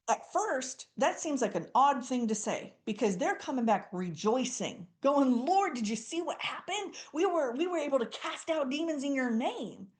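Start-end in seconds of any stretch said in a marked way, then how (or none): 5.4-9.9 high, eager rush of wonder; excited disciples. Retold or imitated. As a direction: burst in like thrilled followers reporting back. Disciples return rejoicing.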